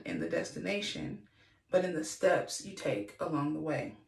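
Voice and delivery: measured, even read-aloud delivery; devotional reading. Acted. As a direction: read your written reflection aloud, composed. Reads a written devotional aloud.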